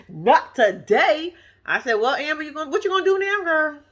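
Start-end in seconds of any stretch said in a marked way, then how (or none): 0.1-1.3 mock parental refusal. 1.9-3.8 teasing question. Retold or imitated. Teasing Amber as if to her.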